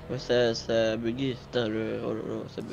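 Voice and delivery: low, soft and defeated; deflated. Real, not acted. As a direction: sag into it, quietly beaten. Game bugs, deflated.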